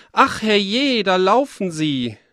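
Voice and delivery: high, loud cry of alarm; baker's shout. Acted. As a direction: yell it as the startled baker spotting them run. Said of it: "der Meister Bäcker schrie".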